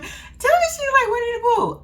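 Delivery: high, laughing squeal; amused disbelief. Real, not acted. Vlogger joking that she looks like Winnie, high laughing squeal. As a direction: squeal it through your laughter. Cracking up over the resemblance.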